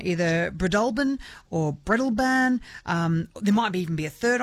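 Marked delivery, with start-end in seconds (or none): 0.5-2.6 Breadalbane said two different ways, slowly; first Breadalbane as bri-DUL-bən, then Breadalbane as BRED-əl-bane; rival pronunciations. Shown as a demonstration. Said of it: "two rival pronunciations of the town".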